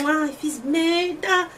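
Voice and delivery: long drawn-out regretful groan of words; slow, rueful "I messed up"; exasperated self-reproach. Retold or imitated. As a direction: stretch it out slowly, mock dismay. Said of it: "ele meio que dá um".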